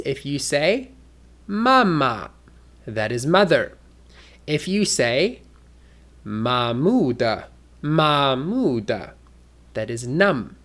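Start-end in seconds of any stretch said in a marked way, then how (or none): 1.5-2.3 "mama" in Mandarin, high then lighter; Chinese tones. Shown as a demonstration. Teacher showing tones change meaning, Chinese-toned "mama". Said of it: "they are called the tones". 6.2-9.1 slow rising-tone "mamuda" in Mandarin; Chinese tones. Shown as a demonstration. Teacher showing the word for numb, Chinese-toned "mamuda". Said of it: "they are called the tones".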